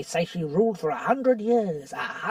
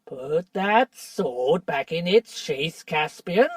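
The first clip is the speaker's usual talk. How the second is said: higher, louder, slow and scornful; dwarf shouting down the drawn sword; angry defiance; 6 semitones higher, 6 dB louder, slower than usual. Acted. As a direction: dare him to strike. Trumpkin defies Caspian at sword.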